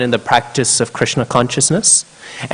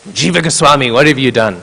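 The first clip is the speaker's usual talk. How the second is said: retold angry rebuke; 3 semitones higher, 4 dB louder than usual. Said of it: "he came very angry".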